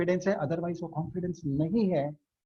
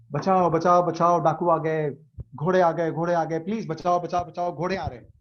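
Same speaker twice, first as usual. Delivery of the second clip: mock panicked shouting. Villager yelling at bandits on the cinema screen, mock panic. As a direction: act out a sudden, mild panic. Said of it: "अचानक से चिल्लाना शुरू कर दिया".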